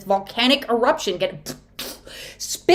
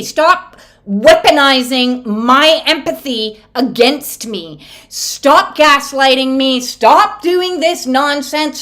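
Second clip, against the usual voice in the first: fed-up rant; 2 semitones higher, 3 dB louder than usual. Acted. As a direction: speak for the angry dragon, fed up. Voicing pissed-off dragon.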